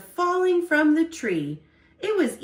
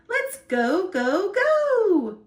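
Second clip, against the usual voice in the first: higher and louder eager cheer; 8 semitones higher, 3 dB louder, slower than usual. Acted. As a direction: egg the squirrel on. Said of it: "Acorn cheered".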